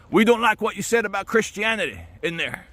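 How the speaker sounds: accosting Christian. Retold or imitated. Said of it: "harassed by Christians saying".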